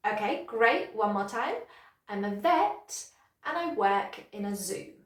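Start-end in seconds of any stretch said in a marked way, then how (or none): 2.1-4.9 "vet", "work" and "zoo" a bit stronger, the rest light; repeat-after-me model stressing "vet", "work" and "zoo"; natural sentence stress. Shown as a demonstration. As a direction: land on "vet", "work" and "zoo", linking the small words. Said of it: "those words, vet, work, and zoo, are a bit stronger".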